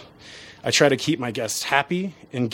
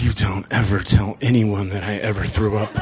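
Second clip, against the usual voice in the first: lightly voiced low, tough biker; mock-menacing order to keep a secret; biker's warning; 4 semitones lower than usual. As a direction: drop lower, a biker swearing someone to silence. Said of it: "and he's like".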